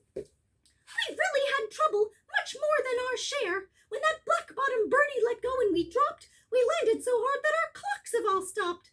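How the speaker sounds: tiny, faint, high little voice, distant-sounding. Reading a story aloud, voicing the mayor answering Horton from the speck: tiny faint mayor voice. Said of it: "but I'm mayor of a town that is friendly and clean. / I know that I'm too small to be seen, but I'm mayor of a town that is friendly and clean. / The mayor grabbed a tom-tom. / The voice was so faint".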